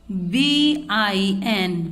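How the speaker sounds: बीआईएन drawn out slowly, letters stretched; slow spelled-out blend. Shown as a demonstration. Teacher spells बीआईएन slowly for the children. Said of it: "बी का sound होता है वा".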